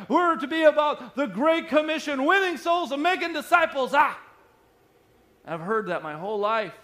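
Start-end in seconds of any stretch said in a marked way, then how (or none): 0.1-4.2 high, raised mock revival-preacher yell; screaming preacher. Imitating preachers he heard growing up on the Great Commission, screaming. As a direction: imitate a fired-up preacher hollering, ending on a punched "ah". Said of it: "screaming at you".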